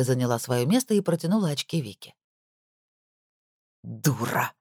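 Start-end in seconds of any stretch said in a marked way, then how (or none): 3.8-4.5 low contemptuous mutter through teeth; hissed through teeth. A narrator's reading. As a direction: spit the insult low and cold. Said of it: "процедил Лопухов".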